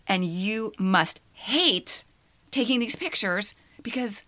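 slow, awed wonder; amazed. Retold or imitated. Praising her friend's story in slow amazement. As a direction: marvel at it slowly, stunned. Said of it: "I was like".

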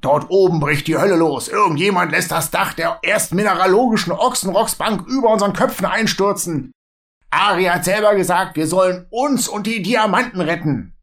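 etwas lauter und höher, hastig berichtend; aufgeregter Zwerg. Acted. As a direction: bringt eilig die Schreckensnachricht. (Urn berichtet Gero aufgeregt vom Einsturz)

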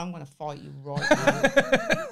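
loud, drawn-out mock Scottish threat; hammy Scottish fighting talk; bad Scottish accent. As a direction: put on a rough Scottish accent, slowly. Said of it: "I can't even do a Scottish accent".

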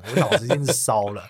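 ordinary delivery

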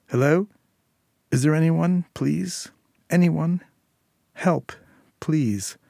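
a scared woman begging at the door; timid and frightened. A narrator's reading. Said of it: "timid, a woman's voice, was frightened".

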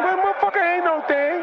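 a touch of hammed-up bravado; retold brush-off. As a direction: toss it off like nothing matters. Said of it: "I said".

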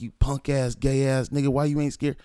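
high-pitched retold insults; going in. Son insults his father over the phone, retold goading. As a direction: hurl mock insults down the phone. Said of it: "I'm going in on them".

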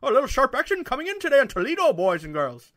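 high, loud mock Irish accent; hammed-up Irish brogue, rushing; a podcast host showing off his Irish accent. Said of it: "I think I have a pretty good Irish accent".

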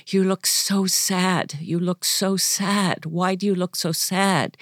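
slow, drawn-out earnest plea; pleading. Acted. Nun asking the Virgin Mary in heaven, pleading. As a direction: stretch each repeat out with concern.

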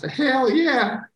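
兴奋地脱口而出; excited yes. Real, not acted. Answering the T-shirt offer.

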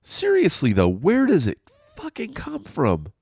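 loud, squealed high complaint; comic high-pitched outburst; mock exasperation. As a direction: shoot up into falsetto in hammed-up disbelief. Exasperated outburst about snot.

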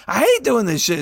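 retold yell. Retelling his rant, "I hate doing this shit" yelled high. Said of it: "she heard me yelling".

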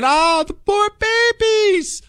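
high, slow sing-song mock sympathy; hammed-up fake pity. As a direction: coo it like a sappy onlooker. Mocking imagined sentimental viewer.

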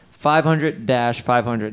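deliberate slow number read; slow, clear number, steady. Shown as a demonstration. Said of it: "repeats number slowly".

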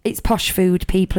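put-on broad Yorkshire accent. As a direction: say it like a proud Yorkshireman. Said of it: "I'm saying that in my best Yorkshire accent".

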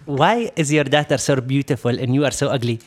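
put-on blunt question in an Arab accent. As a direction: imitate the Arab salesman, building at the end. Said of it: "I'm gonna try to talk to his accent".

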